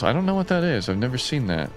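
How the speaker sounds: normal talking voice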